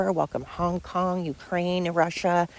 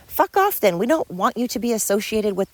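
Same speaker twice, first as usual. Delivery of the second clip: angry outburst; 3 semitones higher than usual. Acted. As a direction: spit it out at them in disgust. Angry retort to protesters.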